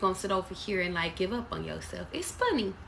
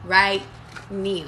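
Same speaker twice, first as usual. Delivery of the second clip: mock shout; 6 dB louder than usual. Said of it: "No, I'm just playing".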